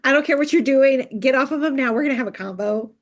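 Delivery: hammed-up bossy Nesta; mock demand. Imitating Nesta bursting in.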